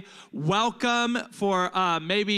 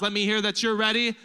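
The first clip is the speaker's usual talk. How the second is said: shouting; 3 semitones higher, 5 dB louder, faster than usual. Real, not acted. Calling for applause.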